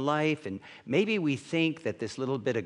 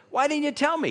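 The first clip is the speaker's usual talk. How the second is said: much higher, loud and incredulous; exasperated disbelief; 13 semitones higher, 4 dB louder, faster than usual. Retold or imitated. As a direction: demand it in shocked disbelief. Retold complaint to Norm.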